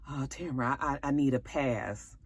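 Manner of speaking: mock sheepish husband; meek plea. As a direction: mumble it meekly, stammering. Nate meekly begging off.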